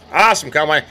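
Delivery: said out with gusto. Real, not acted. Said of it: "repeated softly first".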